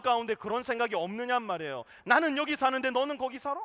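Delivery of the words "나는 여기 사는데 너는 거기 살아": higher, louder sneering tone imitating a show-off; mock snobbish question. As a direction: play the smug neighbour looking down. Mocking a boastful attitude.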